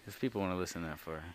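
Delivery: fast Minnesota twang; Minnesota accent. Pretend. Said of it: "You heard my Minnesota accent?".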